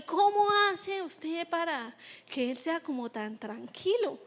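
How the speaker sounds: soft, slowed, lightly voiced question; curious parent. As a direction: ask like an impressed mom after church. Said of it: "han habido comentarios". (pregunta curiosa, suave y lenta)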